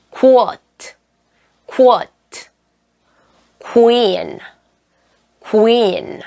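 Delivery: careful model words, QU opened as "koo-w"; QU with distinct "koo". Shown as a demonstration. Teacher models QU words for learners, with distinct "koo". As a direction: say each QU as "koo" gliding into the vowel. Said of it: "발음으로 해주셔야 돼요".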